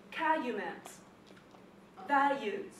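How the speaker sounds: CALUMET and VALUES with the L left out; dropped L. Retold or imitated. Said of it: "they leave out the L".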